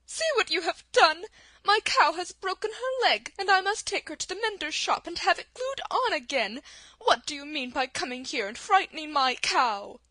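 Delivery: a cross little china milkmaid scolding; angry milkmaid. Acted. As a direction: milkmaid scolding the travelers over her cow. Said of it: "cried the milkmaid angrily".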